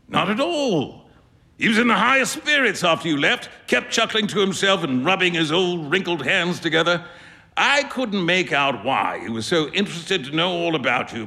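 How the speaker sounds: a hint of a jovial painter chuckling at his friend; amused painter. Trevor ribbing Huey about the sovereign, lightly amused.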